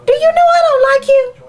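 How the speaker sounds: high, fast, sharp telling-off; what I'd tell him. Pretend. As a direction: snap it at him like you finally can. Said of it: "That's what I wanna tell him".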